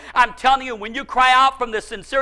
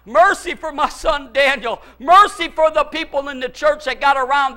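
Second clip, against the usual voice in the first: crying out for mercy; 2 semitones higher than usual. Retold or imitated. Preacher re-enacting an all-night prayer for his son, crying out. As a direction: re-enact a fervent plea for mercy. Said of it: "all night I cried out for mercy".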